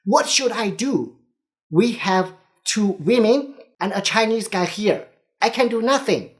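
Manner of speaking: defensive shout up from below deck; retold shout back. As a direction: throw it back at the skipper, fed up. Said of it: "that Australian guy shouted back to the skipper".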